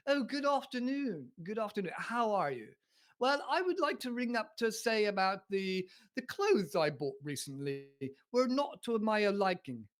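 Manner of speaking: mock-posh telephone politeness; exaggeratedly refined caller. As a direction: put on a polite upper-class phone voice. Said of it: "with R P".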